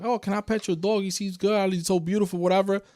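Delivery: butter up the dog owner; sweet-talking stranger. Retold or imitated. Retelling a stranger's sweet-talk.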